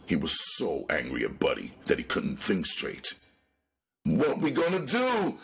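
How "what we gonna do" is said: high terrified wail; much higher panicked voice; panicked cry. Acted. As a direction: cry out, shaking with fear. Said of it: "Tubby cried loudly".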